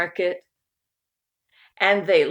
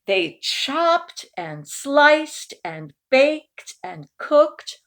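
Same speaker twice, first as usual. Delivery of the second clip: higher, slow drawn-out list; slow busy build; 6 semitones higher, 3 dB louder, much slower than usual. A narrator's reading. Narrator describing cooking all day, slow and higher.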